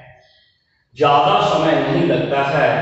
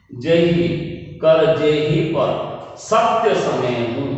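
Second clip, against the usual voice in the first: measured line from the poem; slow verse recital; slower than usual. Shown as a demonstration. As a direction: recite the verse slowly and evenly. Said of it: "जैसे दूसरा उदाहरण है". (धीमे स्वर में पद्य पाठ)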